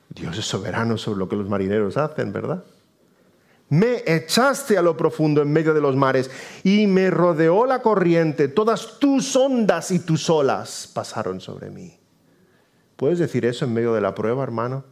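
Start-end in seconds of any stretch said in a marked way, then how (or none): 3.7-12.0 high, drawn-out scripture declamation; Jonah's cry. Acted. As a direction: declaim it slowly, rising then settling. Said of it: "Dice Jonás".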